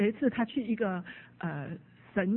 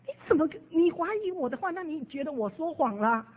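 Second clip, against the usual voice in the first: higher, fast, offended challenge; indignant retort; 6 semitones higher than usual. Retold or imitated. Deere snapping at the doubting theologian, indignant. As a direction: bristle at being doubted. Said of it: "Deere就非常的生气".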